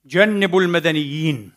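ordinary talk, nothing marked

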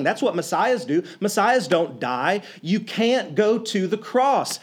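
lightly acted flustered disbelief; agitated protest. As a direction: Peter scolding Jesus, a hint of alarm. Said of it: "Peter loses his mind".

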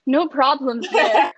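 drawn out slowly through a laugh; laughing sarcasm. Real, not acted. Joking with her co-host about the ex, slow and laughing. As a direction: let the irony leak out as you laugh.

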